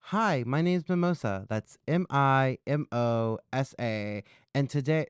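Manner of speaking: big sing-song greeting, letters spelled out slowly; show-host intro. Acted. Host introduces herself to viewers of the show, presenter intro.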